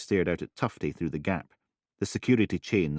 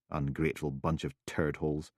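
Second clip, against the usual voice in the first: muttered; 5 dB quieter than usual. Acted. Roberta mutters.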